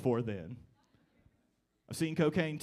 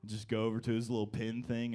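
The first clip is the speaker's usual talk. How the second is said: ordinary talk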